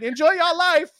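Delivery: loud high overly friendly greeting; cheery passerby. Retold or imitated. People of color greeting white man, high and sweet. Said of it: "they're just like".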